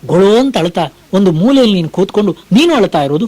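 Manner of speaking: ordinary talk, nothing marked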